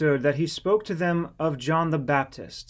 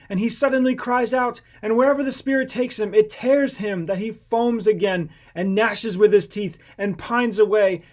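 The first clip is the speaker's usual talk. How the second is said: high, loud pleading cry; raised, anguished plea from a kneeling father; desperate father crying out; 7 semitones higher, 5 dB louder than usual. A narrator's reading. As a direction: beg loudly for your only son. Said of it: "answered and cried out".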